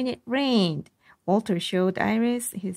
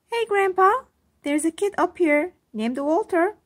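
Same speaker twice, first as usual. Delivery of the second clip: high, louder excited yell; excited girl's shout; 10 semitones higher, 5 dB louder, faster than usual. A narrator's reading. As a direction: shout the news down to grandpa. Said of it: "yelled Iris".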